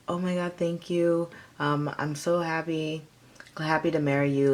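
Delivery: understated, relaxed thank-you; calm, casual reply. Pretend. Accepting the proposal calmly, relaxed and casual. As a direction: say it like it's no big deal. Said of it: "you'll be a very casual tone".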